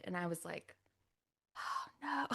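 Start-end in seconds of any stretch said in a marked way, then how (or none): 1.6-2.3 dismayed oh no. Retold or imitated. Dismayed reaction.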